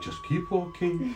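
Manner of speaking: soft, slow, high murmur; hushed, drawn-out sneaking voice; tense self-coaxing. Acted. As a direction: urge yourself on without being heard. Inner voice while sneaking past guards.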